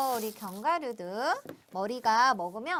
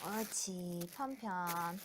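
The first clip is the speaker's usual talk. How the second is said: put-on slow sing-song to a child; 4 semitones lower, 5 dB quieter than usual. Shown as a demonstration. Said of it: "이렇게 편편하게 손바닥으로".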